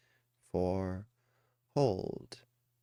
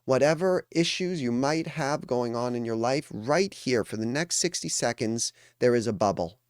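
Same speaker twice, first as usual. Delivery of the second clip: higher, deliberate phrases with pauses between; emphatic reassurance; 3 semitones higher, 4 dB louder than usual. Real, not acted. Coach telling a meditating group they are safe, emphatic reassurance. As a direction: press each reassurance home, word by word.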